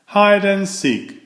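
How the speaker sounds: put-on high, gleeful call of kids; a mild playful shout. A narrator's reading. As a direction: shout it out to a friend. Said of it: "shouted his friends".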